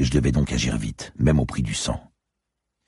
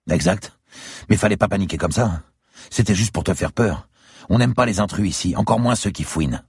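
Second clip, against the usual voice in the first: higher-pitched, animated character voice; captive tough guy; 8 semitones higher than usual. A narrator's reading. Captive explaining he only meant to scare, higher-pitched. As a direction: justify the chase to the interrogator.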